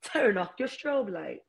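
high, slow, prim complaining voice; Karen voice. Pretend. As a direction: play the entitled neighbor. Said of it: "I would put my Karen on".

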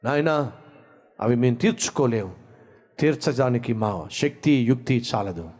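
rising, pleading prayer over music; fervent prayer. Acted. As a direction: pray fervently for the listeners. Leads the closing prayer.

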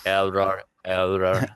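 robot repeating error; flat mechanical error alert; robotic error message. Pretend. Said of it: "you were like a robot there".

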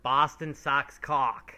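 drawn out, each word hit; slow emphatic. Real, not acted. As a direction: spell it out slowly.

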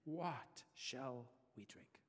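slow, drawn-out mock grumble; grumbling. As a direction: drag it out like a complaining crowd. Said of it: "the people grumbled against Moses".

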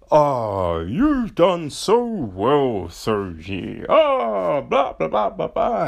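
mocking praise. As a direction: parody the gushing compliment. Mocking character's praise of Soji.

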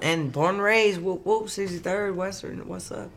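Chicago accent creeping out. Real, not acted. Chicagoan boasting of the home neighbourhood, Chicago accent creeping out. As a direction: let a little Chicago slip in. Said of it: "there it started creeping out a little bit".

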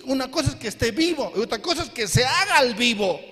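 fast and laughing through the quip; laughing punchline. Real, not acted. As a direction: deliver the joke with a laugh.

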